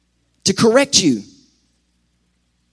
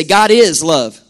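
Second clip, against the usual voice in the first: louder, leading the crowd; loud call-out; 3 semitones lower, 5 dB louder, slower than usual. Acted. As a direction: call it out for all to repeat. Congregation call.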